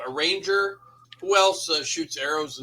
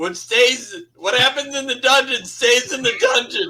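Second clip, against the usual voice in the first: sheepish, embarrassed, pitched up and loud; 8 semitones higher, 5 dB louder than usual. Speaking in character after putting armor back on: sheepish. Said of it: "look kind of sheepishly around".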